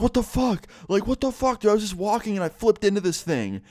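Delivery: very high, freaked-out friend voice; acted bewildered outrage. Friend complaining from the bottom of a hole, high mock panic.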